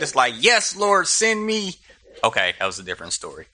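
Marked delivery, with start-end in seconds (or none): 0.4-1.8 high, eager mock volunteer; hammed-up gung-ho eagerness. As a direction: imitate an over-keen recruit answering the call. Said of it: "just really gung-ho from Jump Street".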